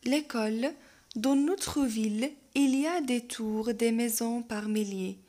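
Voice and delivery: slow, measured poem reading; poem recitation. Acted. Reads poem aloud.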